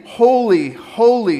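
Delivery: high, loud ringing proclamation of Holy; proclaiming the seraphim's cry. Acted. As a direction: call out Holy like angels before the throne. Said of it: "these seraphim are saying".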